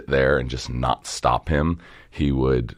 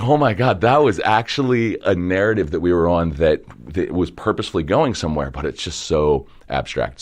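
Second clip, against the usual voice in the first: higher and louder, amazed rush; mock amazement; 5 semitones higher, 5 dB louder than usual. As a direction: gush as if the story suddenly makes sense. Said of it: "And you're like".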